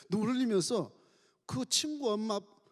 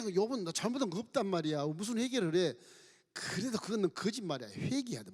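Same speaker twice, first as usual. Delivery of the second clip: accusing friends; 4 semitones higher than usual. Acted. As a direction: scold him, demand he repent. Friends accusing Job in sermon.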